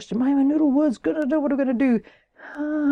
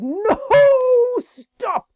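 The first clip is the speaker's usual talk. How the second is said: higher and louder, quick warning; urgent higher cry of stop; 11 semitones higher, 6 dB louder than usual. Acted. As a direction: shout a warning to stop her. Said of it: "Horace who said".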